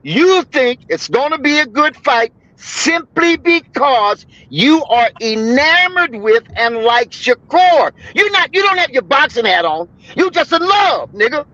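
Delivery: emphatic, drawn-out argument; heated screaming. Real, not acted. Arguing with Shakur fans about the fight, heated and emphatic. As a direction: hammer each word slowly and forcefully. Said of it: "screaming like the good second wife".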